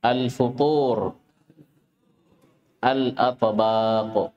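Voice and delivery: careful, drawn-out word-by-word model; model pronunciation. Shown as a demonstration. Teacher models words for listening students, careful and drawn out. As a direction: say each word slowly with long vowels. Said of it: "nakra jami'an".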